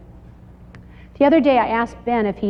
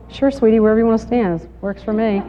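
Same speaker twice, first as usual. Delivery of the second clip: sweet reply; faster than usual. Retold or imitated. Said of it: "You're going".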